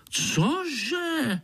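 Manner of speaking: high, outraged cry; irritated mosquito; indignant. Acted. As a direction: explode in disbelief. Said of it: "Pišta se rozčílil".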